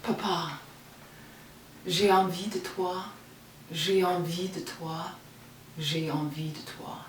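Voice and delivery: intimate prayer to God, short measured phrases; poem reading. Acted. Reads her prayer poem aloud.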